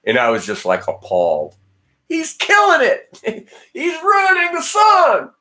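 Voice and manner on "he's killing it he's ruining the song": laughing outrage. Real, not acted. Appalled by a ruined song.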